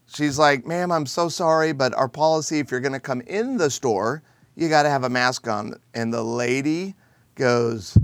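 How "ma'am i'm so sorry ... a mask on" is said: sweetly polite. Retold or imitated. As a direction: gently say sorry while holding to the rule. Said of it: "very sweetly".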